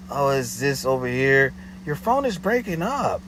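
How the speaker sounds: imitating the caller faking a bad line; mock caller excuse. Her excuse on phone.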